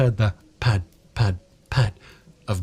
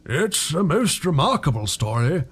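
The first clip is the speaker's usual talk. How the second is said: grave vicar; 4 semitones higher than usual. A narrator's reading.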